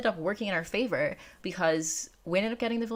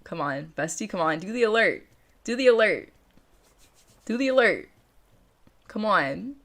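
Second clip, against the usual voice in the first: louder, eager urging; 3 semitones higher, 4 dB louder than usual. Real, not acted. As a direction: egg the alert on. Urging stream alert to appear.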